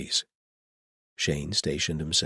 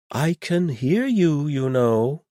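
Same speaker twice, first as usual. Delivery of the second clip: wry overheard retort; 11 semitones higher, 7 dB louder, slower than usual. Acted. Davith overhears plotting against him.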